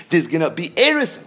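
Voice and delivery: Erison given emphasis as the key word; stress on Erison. Shown as a demonstration. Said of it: "Why is that the emphasis".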